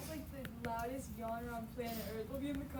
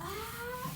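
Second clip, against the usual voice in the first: high, drawn-out sneeze build-up ah; mock sneeze wind-up; 11 semitones higher than usual. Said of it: "he'll, like, wind it up".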